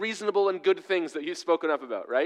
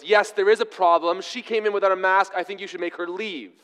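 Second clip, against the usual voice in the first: louder, pushy complaint to the guard; insistent demand; 3 semitones higher, 4 dB louder than usual. Retold or imitated. Angry shopper insisting to the guard, forceful. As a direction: demand the guard act, indignant. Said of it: "Her response was".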